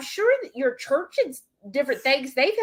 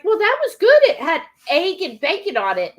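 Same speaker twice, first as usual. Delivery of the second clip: imitating mom; 7 semitones higher, 5 dB louder than usual. Mom's words retold to daughter.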